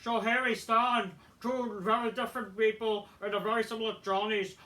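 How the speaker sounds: put-on promo recital; lightly performed wrestling promo; promo read-out. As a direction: read out a wrestler's speech in a mock voice. Reads out a rival's promo.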